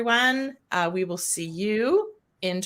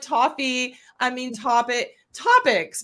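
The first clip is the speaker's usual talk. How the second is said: topics said high and stressed after the slip; emphasized correction; 6 semitones higher, slower than usual. Shown as a demonstration. Host demonstrating a stumbled edit, topics stressed high. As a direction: fix the word by leaning on topics. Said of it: "'cause I'm emphasizing the fact".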